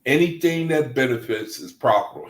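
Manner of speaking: Anything that benefits is profitable rattled off fast; quoting the brother from Bible study, rattled off fast; quick recited quote. Retold or imitated. Repeating the brother's saying at a brisk clip. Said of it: "he said".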